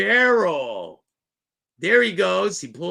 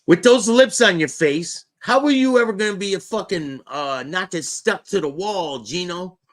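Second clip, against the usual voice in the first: mocking; 4 semitones higher, 6 dB louder than usual. Real, not acted. Mocking Gino's lips.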